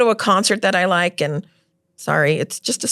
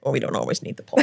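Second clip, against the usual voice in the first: laughing; 6 semitones lower, 5 dB quieter, much faster than usual. Real, not acted.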